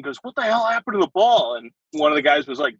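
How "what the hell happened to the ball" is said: retold yelling. First sergeant demanding answers about the ball, mock yelling. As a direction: imitate an indignant sergeant yelling. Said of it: "first sergeant was yelling".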